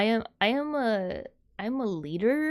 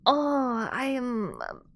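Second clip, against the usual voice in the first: swooning soap opera lady; slower than usual. Pretend. Mocking soap opera heroines, hammed-up swoon. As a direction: ham up a lovestruck soap heroine. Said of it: "I don't wanna play this lady that's like".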